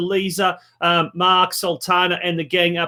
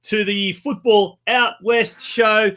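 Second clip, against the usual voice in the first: show-opening announcer. Real, not acted. Host welcoming viewers to quiz night, show-opening announcer. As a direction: roll out a big welcome to the show.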